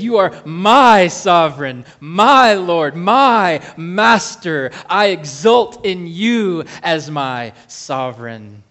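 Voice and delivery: loud, swelling praise to God, slow on my master; exultant declaration. Shown as a demonstration. Preacher voicing David, exulting loudly. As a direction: proclaim it with full joy, building loud. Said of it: "He exults in it".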